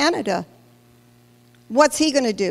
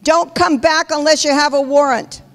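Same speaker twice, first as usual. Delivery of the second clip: retold yell; 3 semitones higher than usual. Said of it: "he yelled at them".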